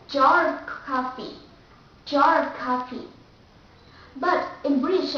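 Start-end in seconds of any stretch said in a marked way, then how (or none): 0.1-3.1 jar of coffee with American R; strong American R in jar; American accent. Shown as a demonstration. Teacher showing that R is never silent, American accent. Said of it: "in American accent, we have to pronounce the R".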